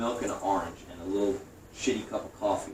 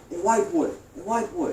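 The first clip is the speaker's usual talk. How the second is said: cop calling; 11 semitones higher, 3 dB louder than usual. Retold or imitated.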